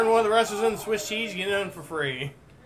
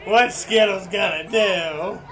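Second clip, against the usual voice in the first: mock despair; 7 dB louder, slower than usual. Mock grief for the wrestler.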